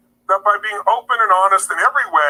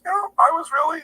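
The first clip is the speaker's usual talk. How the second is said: high, soft, hesitant admission; understated, dainty mock annoyance; barely upset; 7 semitones higher, 5 dB quieter than usual. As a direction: imitate a mild man searching for a gentle word. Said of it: "he really wasn't that upset".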